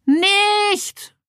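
very high sharp shout; barked stop. Acted. Lab chief barks a warning at Merle, sharp high shout. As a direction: bark it to stop her. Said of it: "bellte der Laborchef".

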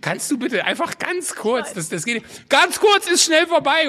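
high, slow, strained pleading; exasperated plea. Retold or imitated. Joko at dinner pleading with a fan to wait, strained and slow. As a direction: beg for a moment's peace, exasperated. Annoyed celebrity imagined reply.

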